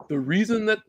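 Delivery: put-on half-hearted Russian accent; bad Russian accent. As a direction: try a clumsy Russian accent. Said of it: "my Russian accent is bad".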